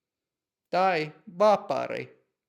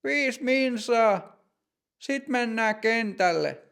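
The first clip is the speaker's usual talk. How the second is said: coach shouting; 7 semitones higher than usual. Acted. Coach calling the players out to the field, shouting. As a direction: call the team to the pitch. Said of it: "Joukkueen mokke huutaa".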